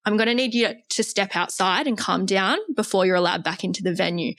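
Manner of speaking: calm and firm. Retold or imitated. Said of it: "said in front of everyone really calmly".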